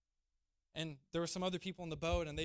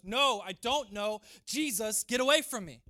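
raised-voice denial, word by word; fearful denial; 7 dB louder than usual. Acted. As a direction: push the questioner away forcefully. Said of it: "out of fear of being crucified".

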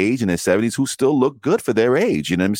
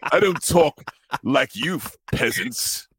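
put-on English accent; 4 semitones higher, slower than usual. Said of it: "English accent".

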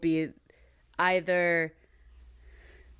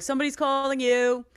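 slightly singsong, higher announcement; imitated ringtone; 4 semitones higher than usual. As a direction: chant it like a novelty ringtone, stretching the end.

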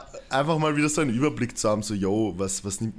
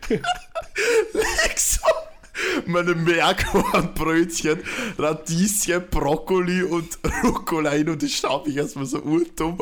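lachend erzählt, hohe Stimme; giggling through the story; laughing while telling; 7 semitones higher, slower than usual. Retold or imitated. Acts out checkout, laughing. (lachend erzählt)

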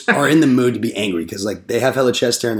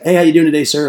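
higher, louder sales greeting; cheery greeting; 4 semitones higher, 5 dB louder, faster than usual. Retold or imitated. Salesman greeting an unseen homeowner, bright cheery. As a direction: greet brightly at a blind screen. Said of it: "I'd be like".

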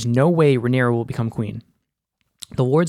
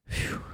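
soft, breathy "phew" of relief; mock a relieved sigh, blown out quietly; relieved exhale; 14 dB quieter than usual. Acting out Viserys's relief.

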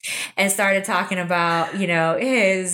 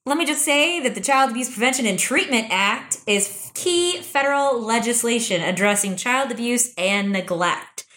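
recited plug, a little robotic; 2 semitones higher than usual. Real, not acted. Host plugging the association, like a little robot. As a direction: reel it off like an automated announcement. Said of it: "You sounded like a little robot".

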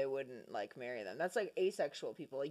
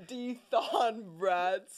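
slow, drawn-out; much slower than usual. Acted. Joking about a gross snack order.

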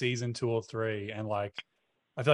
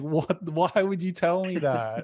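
retold exasperation; 5 semitones higher, much slower than usual. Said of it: "I was like".

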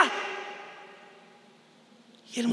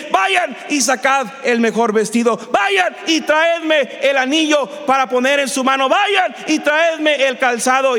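raised-pitch calling out of orders; excited commanding; 4 semitones higher than usual. Acted. Father sending servants for robe and ring, excitedly commanding. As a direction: launch each order on a high, eager call.

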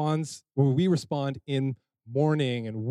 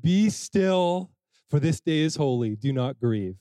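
soothing Levites. Acted. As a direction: play the priests settling the crowd. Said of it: "Fun to play with it".

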